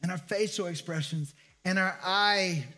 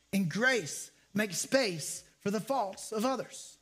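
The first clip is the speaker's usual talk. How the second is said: slow; slower than usual. Shown as a demonstration. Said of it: "repeated for emphasis".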